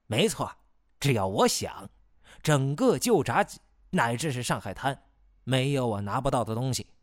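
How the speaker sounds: proud, boastful claim; arrogant. Acted. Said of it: "倨傲地扬起下巴".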